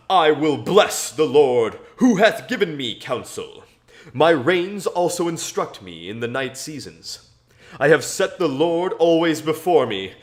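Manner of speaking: solemn, measured Bible reading; scripture reading. Acted. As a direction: read the psalm verse by verse to listeners. Reading Psalm sixteen aloud.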